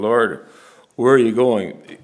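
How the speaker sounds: slow, loud pleading question; Peter's loud plea. Retold or imitated. Peter calling after Jesus, asking where he goes: slow loud plea.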